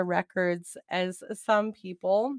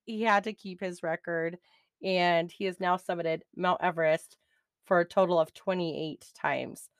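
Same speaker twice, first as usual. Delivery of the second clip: out of breath. Real, not acted. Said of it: "I lost my breath".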